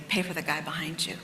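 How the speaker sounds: soft, hushed voice of God; quiet whisper of a divine nudge; inner voice. Retold or imitated. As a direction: say it like a quiet prompting inside you.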